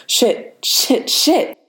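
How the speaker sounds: breathless rising panic, breaking into unvoiced air; panicked curse. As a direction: swear in mounting panic, pitch climbing. Peter panicking over Ross.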